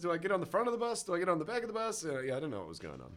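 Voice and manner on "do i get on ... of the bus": mild panic. Retold or imitated. Retold panicked bus stop thoughts.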